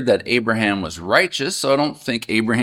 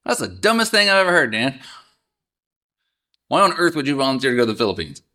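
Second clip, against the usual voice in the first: fast, higher mock put-down; blunt critic; 3 semitones higher, much faster than usual. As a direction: rattle it off like a rude friend. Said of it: "how would I want somebody".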